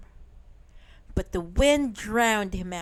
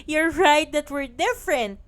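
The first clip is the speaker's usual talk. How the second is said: laughing; 6 semitones higher, 5 dB louder, faster than usual. Acted. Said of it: "laughed Minik".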